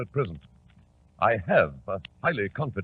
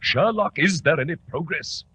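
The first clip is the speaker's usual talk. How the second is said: higher, louder urgent call; anxious; 5 semitones higher, 5 dB louder than usual. Acted. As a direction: press him for news. Mycroft anxious for news.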